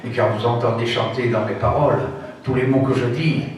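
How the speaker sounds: recited verse with dramatic pauses; a poem recited aloud with feeling and pauses; poem recitation. Acted. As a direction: declaim the poem with pride in the accent. Recites Zamacoïs poem on accents.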